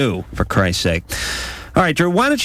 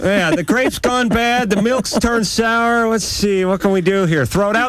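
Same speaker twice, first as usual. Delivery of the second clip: high, hammed-up pondering voice; mock English cook; 10 semitones higher than usual. Host plays scone inventor facing spoiled food, mock English cook. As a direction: puzzle aloud in a put-on high voice.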